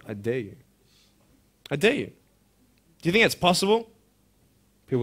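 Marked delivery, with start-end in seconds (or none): 0.1-0.6 low, soft "I dare you"; quiet dare. Real, not acted. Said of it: "I dare this school". 1.7-2.1 firm dare. Real, not acted. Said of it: "I dare this school".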